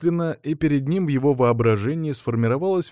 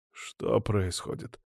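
sleepy; 7 dB quieter, slower than usual. Acted. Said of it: "пытаясь разлепить глаза".

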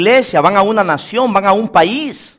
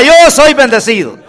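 raised, emphatic declaration; rallying cry; 3 semitones higher, 3 dB louder than usual. Shown as a demonstration. Preacher asks the congregation to shout along, rallying cry. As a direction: lead the crowd in declaring it. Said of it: "Grite conmigo".

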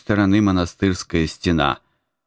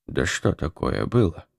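soft, gentle, calm asking; meek question; 4 dB quieter than usual. A narrator's reading. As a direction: ask mildly and calmly. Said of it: "спокойно и кротко спросил Феодосий". (кроткий спокойный вопрос)

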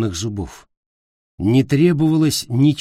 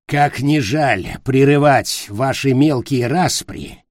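sharp creature voice; 2 semitones higher, slower than usual. Acted. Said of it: "резко заговорил он".

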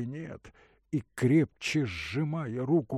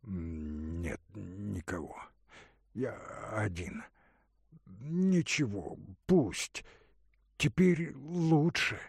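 delirious; slower than usual. Acted. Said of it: "будто в бреду".

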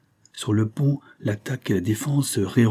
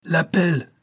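"L'appel" shouted even higher, falling at the end; shouted call; 9 semitones higher than usual. A narrator's reading. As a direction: echo the call "L'appel" across the ship. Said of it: "reprit le maître de manœuvre".

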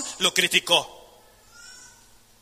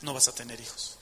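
low stern verdict; 9 semitones lower, 13 dB quieter than usual. Retold or imitated. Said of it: "le dijo David".

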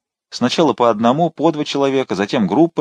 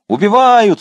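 much higher and louder; screaming murder; 11 semitones higher, 7 dB louder, slower than usual. A narrator's reading. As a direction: echo her with a scream. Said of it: "вторил ей Фрике". (вопит «Убивают!»)

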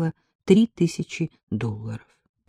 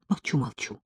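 softer, hushed promise to be quiet; whisper; 3 semitones lower, 8 dB quieter than usual. A narrator's reading. Narrator whispers to Ella, hushing herself. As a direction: hush yourself at once. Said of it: "зашептала я".

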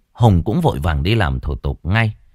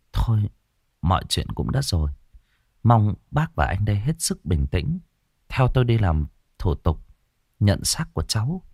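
voice breaking; 4 dB quieter than usual. Acted. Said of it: "giọng cũng lạc đi".

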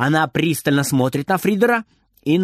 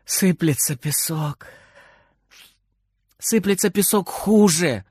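slight sobbing. A narrator's reading. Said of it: "немножко всхлипывает".

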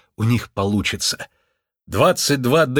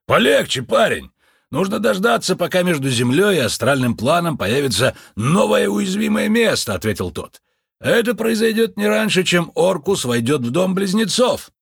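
слегка приподнятый голос Лунветра; мистик с важностью объясняет обряд; чудаковатый мистик; 8 semitones higher than usual. A narrator's reading. Лунветр успокаивает Джо. (Лунветр рассказывает Джо об обряде, торжественно)

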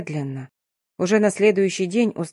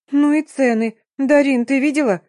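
higher and louder, a shocked gasp at prices; gasping surprise; 6 semitones higher, 4 dB louder than usual. A narrator's reading. Tasya to Darina over the price tags, astonished and louder. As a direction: gasp it out, eyes on the price tag. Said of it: "ахнула".

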